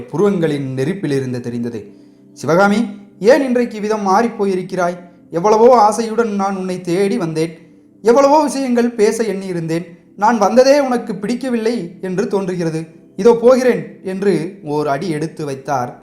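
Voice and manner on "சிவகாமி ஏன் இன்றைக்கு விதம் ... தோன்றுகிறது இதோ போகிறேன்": mildly angry, rising to a raised exit line; wounded prince about to walk off; hurt anger. Acted. The prince, angry, tells Sivakami he will leave. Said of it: "உண்மையிலேயே கோபம் வந்ததென்று".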